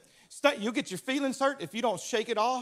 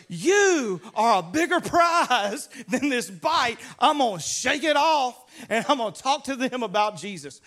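Paul laughing it off; 6 dB louder than usual. Retold or imitated. Paul shrugging off the snake bite to the crowd, loud and laughing. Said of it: "So he goes".

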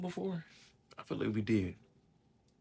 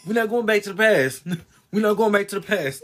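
loud repeat, breaking into laughter; laughing repeat; 5 semitones higher, 13 dB louder than usual. Real, not acted. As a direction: say it again, laughing.

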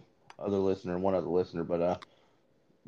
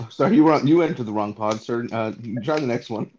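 mock clerk; 2 semitones higher, 5 dB louder than usual. Mock receptionist redirecting.

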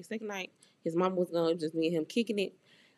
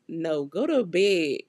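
firm refusal; 6 dB louder, slower than usual. Retold or imitated. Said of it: "And I'm just like".

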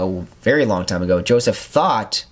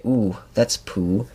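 slow, soft, unbothered ooh that's poo; mild mock calm; 3 dB quieter, slower than usual. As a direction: say it like nothing happened. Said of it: "he would just say".

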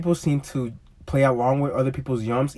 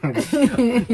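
playful kiss; 11 semitones higher, 4 dB louder than usual. Real, not acted.

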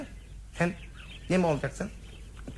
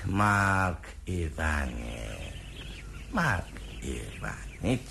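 mournful lament; 13 semitones lower, 4 dB quieter, slower than usual. Acted. Mourning over dead master.

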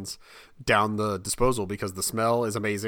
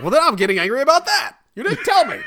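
higher, louder, fast indignant squawk; mock outrage; 14 semitones higher, 8 dB louder than usual. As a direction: splutter in hammed-up indignation. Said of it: "And I was like".

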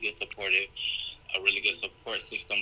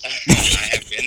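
words broken by a laugh; giggling burst; 14 semitones higher, 8 dB louder, faster than usual. Real, not acted. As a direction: laughs through been, loud.

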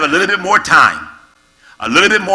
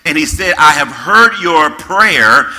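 scripture reading. Acted. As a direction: read God's words with gravity. Reads scripture slowly.

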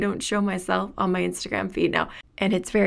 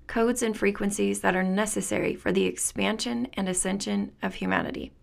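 reading aloud. Acted. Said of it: "The book reads".

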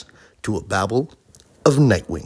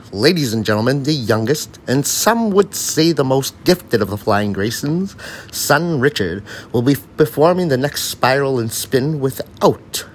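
excited circus announcer, rising higher; ringmaster; 5 semitones higher, 3 dB louder than usual. Acted. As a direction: hype up the crowd under the big top. Ringmaster introduces the son.

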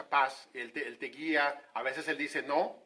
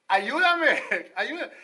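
desperate cry; 8 semitones higher, 10 dB louder than usual. Acted. Bartimeo begging Jesus for help.

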